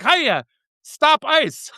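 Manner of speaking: slow, stretched-out "Hiya, stop ice" with a falling end; drawn-out greeting. Retold or imitated. Skier greeting passersby on the trail, slowly drawn out. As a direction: drag the greeting out slowly, as a pointed joke. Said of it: "and then I'd be like".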